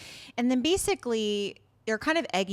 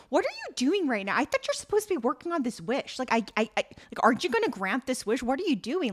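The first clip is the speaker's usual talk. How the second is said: higher, hurried mock confrontation; retelling her pestering questions, pitched up; retold impatient demand; 4 semitones higher, faster than usual. She presses the genie about her wish, impatient.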